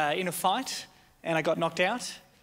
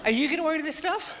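shouted question; 9 semitones higher than usual. Acted. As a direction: yell it in disbelief. Partner voiced, demanding.

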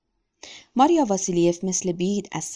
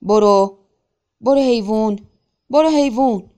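loud repeated yells, climbing higher; urgent shouting; 3 semitones higher, 8 dB louder than usual. A narrator's reading. Simon standing up to drive the horse through water, escalating shout. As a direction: bellow at the horse, mounting urgency. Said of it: "ایستاد و فریاد کشید".

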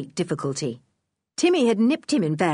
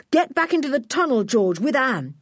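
higher, hurried mild yell; raised-pitch urgent command; yelled order; 6 semitones higher than usual. A narrator's reading. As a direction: call out a quick urgent order. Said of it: "yelled Julian".

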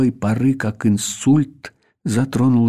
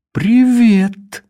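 amused greeting; 11 semitones higher, 6 dB louder than usual. Acted. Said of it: "явно забавляясь сценой".

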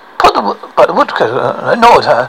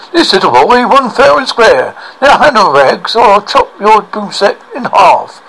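stern woodcutter; 4 semitones higher, 4 dB louder than usual. Acted. Woodcutter threatens witch.

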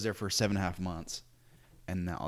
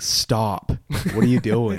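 annoyed demand; 2 semitones higher, 10 dB louder, slower than usual. Retold or imitated. Annoyed fellow missionaries.

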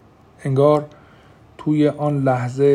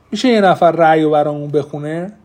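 louder, objecting request; protesting; 6 dB louder than usual. Acted. Tate asking for the verdict to be read, protesting. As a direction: put the question as an open protest. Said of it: "با حالت اعتراضی گفت".

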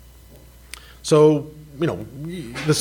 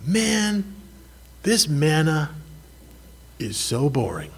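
whining Israelites; 3 semitones higher, slower than usual. Retold or imitated. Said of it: "what did they say about the manna".

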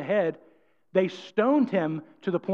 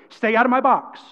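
firm demo, a little raised; firm, not harsh; 2 semitones higher, 4 dB louder than usual. Shown as a demonstration. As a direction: say it firmly without harshness. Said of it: "He wasn't saying it harshly".

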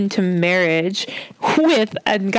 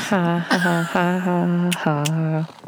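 fake laugh; slower than usual. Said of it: "mock laugh".

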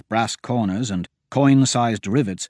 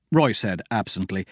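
ordinary talk, nothing marked

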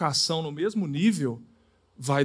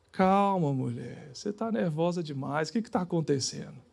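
softer, calming the wife down; soft answer; 3 semitones lower, 6 dB quieter than usual. Shown as a demonstration. Husband calms his furious wife, softly. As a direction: answer her gently to defuse the anger. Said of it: "Fala assim".

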